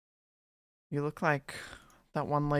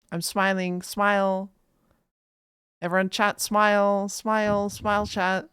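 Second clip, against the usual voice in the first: raised, higher photo-time call; 5 semitones higher, 6 dB louder than usual. Pretend. Telling chat to smile for the photo, loud calling out. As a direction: call to everyone, high and loud.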